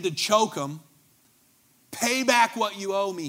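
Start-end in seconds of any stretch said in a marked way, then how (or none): 1.9-3.3 mock demand. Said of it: "he demanded".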